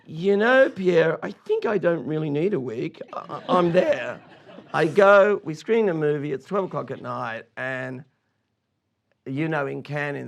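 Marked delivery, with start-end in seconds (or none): 0.1-4.2 higher, louder, eager and breathless; excited yes over laughter; eager reply. Retold or imitated. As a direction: jump at the offer. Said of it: "And I go".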